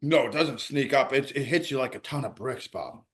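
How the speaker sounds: talking through a burning mouth; mouth burning from spicy food. Real, not acted. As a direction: mouth on fire from spice. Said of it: "my mouth is on fire".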